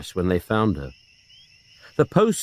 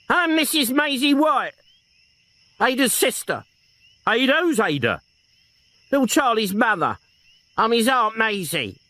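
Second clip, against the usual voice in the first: put-on higher old woman's voice; old aunt; 12 semitones higher than usual. Elderly aunt explaining herself to detective, flustered.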